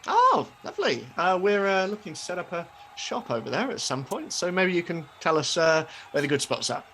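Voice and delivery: lightly voiced market seller; chatty stallholder. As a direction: make business small talk with a customer. Stallholder chats about expanding.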